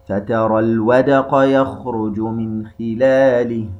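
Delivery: slow melodic tajweed recitation; Quran recitation. Shown as a demonstration. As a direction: chant the verse slowly with tajweed.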